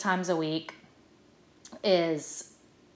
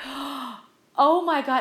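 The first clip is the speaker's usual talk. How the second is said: awed gasp; 7 semitones higher, 5 dB louder, much slower than usual. Retold or imitated. Julie Andrews impression, gasped awe.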